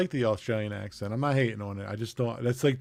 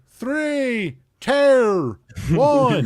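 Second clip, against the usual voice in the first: high mock Australian "tear" for "three"; Australian countdown; 10 semitones higher, 5 dB louder, much slower than usual. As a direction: count down like an Aussie, higher. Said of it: "they're like".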